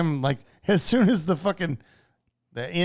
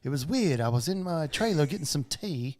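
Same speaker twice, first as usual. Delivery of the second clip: a hint of a mock British accent, lightly put on; playing Andrew Lincoln as a hammed-up Englishman; bad British accent; 3 dB quieter than usual. Joking about an actor to a co-host, in a lightly put-on British accent. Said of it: "the worst British accent ever".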